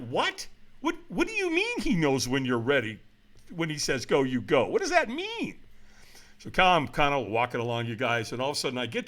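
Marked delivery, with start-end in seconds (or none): 0.1-5.6 baffled questioning. Retold or imitated. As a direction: play utterly puzzled by cryptic advice. Acts out his baffled reaction.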